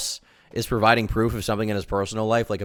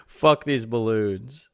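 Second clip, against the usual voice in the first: mock Wes rant; much slower than usual. Mocking Wes's balloon meltdown.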